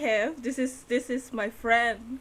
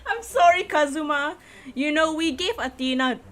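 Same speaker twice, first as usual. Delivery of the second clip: higher character voice; 5 semitones higher, 4 dB louder than usual. Acted.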